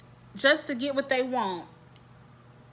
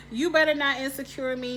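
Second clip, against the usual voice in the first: higher and louder warning; emphatic warning; 4 semitones higher, 4 dB louder than usual. Real, not acted. Warning the show's writers, loud and emphatic. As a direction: warn the writers firmly. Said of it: "repeats louder".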